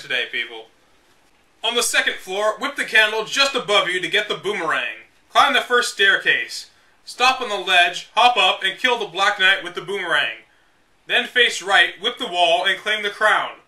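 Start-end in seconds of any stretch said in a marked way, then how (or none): 1.6-13.6 measured, deliberate strategy-guide narration; guidebook read-aloud. Acted. Reading old game guide to viewers, deliberate. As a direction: read it like the official manual, step by step.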